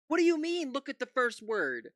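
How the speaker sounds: outraged yell. Real, not acted. Streamer yelling at Fox News hosts, outraged. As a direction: shout it in disbelief at the TV hosts.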